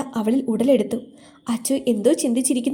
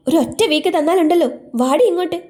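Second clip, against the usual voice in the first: high, louder, threatening order; mock-angry scolding; 6 semitones higher, 4 dB louder than usual. A narrator's reading. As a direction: scold a friend into coming along. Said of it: "Lachu കലിപ്പിച്ചുകൊണ്ട് പറഞ്ഞു". (കലിപ്പിച്ചുകൊണ്ട്)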